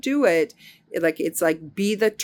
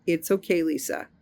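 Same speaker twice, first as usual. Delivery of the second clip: gentle inner reassurance; self-soothing. Retold or imitated. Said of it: "So I said".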